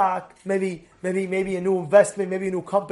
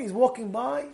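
usual speaking voice

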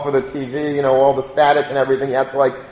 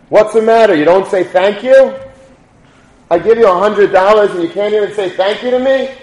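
retold scolding yell; 4 semitones higher than usual. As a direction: scold him for skipping the thank-you, voice lifted. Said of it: "starts screaming at him".

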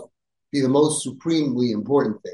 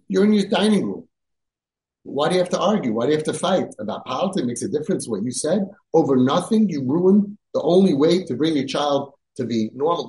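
raised retold rebuke. Rabbi scolding a father who fought over politics, raised voice. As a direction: scold him in disbelief.

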